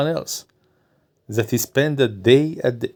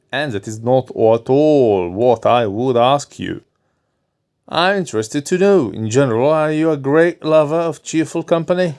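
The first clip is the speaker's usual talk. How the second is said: a lightly voiced doctor, a bit higher; doctor's voice; 3 semitones higher than usual. Doctor advising his nervous patient, lightly voiced.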